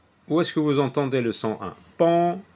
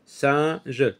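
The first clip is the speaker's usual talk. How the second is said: slow teaching delivery; much slower than usual. Shown as a demonstration. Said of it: "C'est ici que j'entends le son un".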